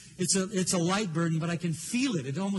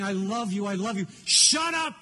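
lightly voiced God, insistent and loving; earnest divine plea, drawing out key words. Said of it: "I can feel him saying".

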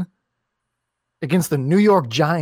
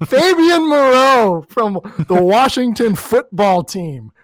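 laughing shout; 3 semitones higher, 4 dB louder than usual. Real, not acted. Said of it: "Blowing out our audio out here".

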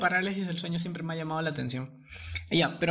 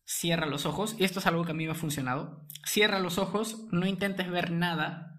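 right in your ear. Acted. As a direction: talk them down gently, close to the ear. Guides a listener in paralysis. (al oído, voz suave y pausada)

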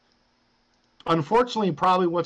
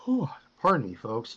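talking through a yawn; 3 dB quieter than usual. Real, not acted. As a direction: stretch the words in a yawn. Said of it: "I'm yawning".

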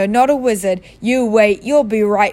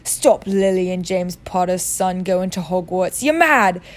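growled. Acted. Hagrid growls at Vernon defending Harry's schooling. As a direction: growl it down at the muggle. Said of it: "growled Hagrid".

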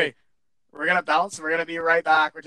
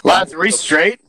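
muffled, echoey distorted line; inside a fishbowl; 5 semitones higher, 8 dB louder than usual. Real, not acted. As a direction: voice bouncing around a fishbowl. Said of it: "You sound like you're in a fishbowl".

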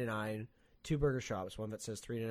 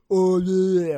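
smug mock reply; 7 semitones higher, 16 dB louder than usual. Friends answering smugly.

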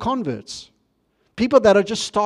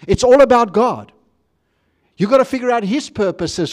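emphatic preaching; 3 semitones higher, 3 dB louder than usual. Real, not acted. Preacher telling congregation what mature faith is, emphatic preaching. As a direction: press each phrase home to the congregation.

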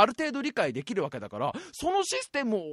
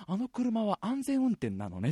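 posh lady remark; 5 dB quieter, slower than usual. Retold or imitated. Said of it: "ザマスおまさばの、感想が一言".

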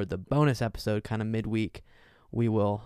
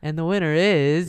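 announcer voice; 5 semitones higher, 7 dB louder than usual. Pretend. Mock kid show presenting.

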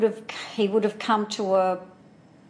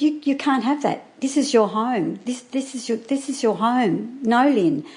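urgent pleading; 4 semitones higher than usual. Retold or imitated. Pleading with friend about husband.

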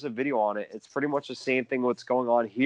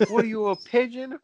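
mocking chirp, pitched way up; hockey trash talk; 11 semitones higher than usual. LeBron calling Anthony Davis a pigeon, mocking high chirp. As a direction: sneer it like a rink insult. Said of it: "Like LeBron calling Anthony Davis a pigeon?".

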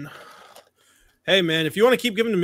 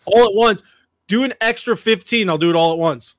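excited; 4 semitones higher, 6 dB louder than usual. Real, not acted. Eager challenge.

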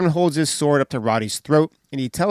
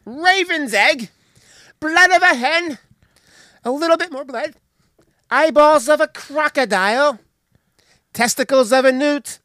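witch voice; 11 semitones higher, 5 dB louder than usual. Retold or imitated. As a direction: croon the recipe like a witch. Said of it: "She's like".

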